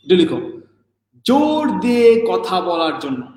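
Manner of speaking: slow, word-by-word dictation for note-taking. Shown as a demonstration. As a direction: spell it out slowly so they can write. (ধীরে ধীরে dictation দেওয়া)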